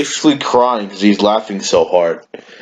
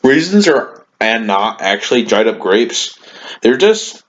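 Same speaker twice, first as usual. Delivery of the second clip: teacher impression. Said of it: "he would say some dumbass shit like".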